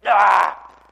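sudden loud exasperated "ah!", drawn out slowly; a stuck believer's loud groan of exasperation at God; frustrated cry. Retold or imitated.

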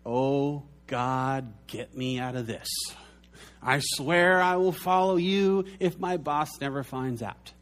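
a hint of a panicked bargaining plea; mock desperate prayer. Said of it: "The other category is".

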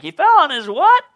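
loud, high mock double take; shocked listener. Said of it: "You're like".

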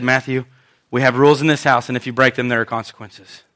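low, measured, firm warning; stern mother. Retold or imitated. Mom laying down house rules to her son, stern. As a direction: lay down the rules quietly and sternly. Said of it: "very sternly".

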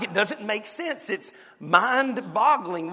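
ordinary delivery

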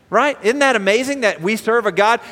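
ordinary talk

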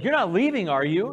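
a church afraid their pastor leaves; anxious congregation. Retold or imitated. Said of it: "They're like".

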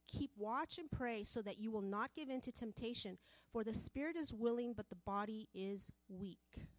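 loud, declaiming the verse to the congregation; scripture reading. Acted. Preacher reads Mark to the congregation, loud and declaiming. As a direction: proclaim the verse with force.

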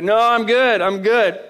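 insistent refusal. Retold or imitated. Tired driver refusing to hand over, insistent. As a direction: wave the offer away firmly.

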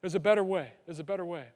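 soft, hushed voice of God; a quiet coaxing nudge, fading away; gentle nudge. Retold or imitated. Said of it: "he kinda nudges us and says".

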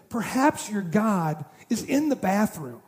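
slow, teasing put-down; mocking jab. Elijah mocking Baal's prophets, slow teasing jab. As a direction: savour the insult. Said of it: "trash talking".

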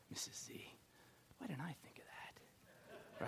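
whispered, slow envious aside; jealous whisper. Acted. Envious group member whispering to herself about Missus Z. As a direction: whisper it so nobody hears.

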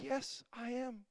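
very soft and slow, spent; weary yes. Retold or imitated. Pastor answers the soothing voice, soft and slow. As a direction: sigh it out, defeated. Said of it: "I'm like".

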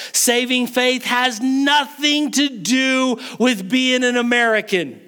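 high, ringing sermon declaration; insistent preacher building his case; full-force preaching. Real, not acted.

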